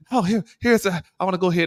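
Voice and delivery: high, mock-innocent confusion; feigned cluelessness. Passenger trying to board in the wrong group, feigned cluelessness. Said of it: "act like they don't know".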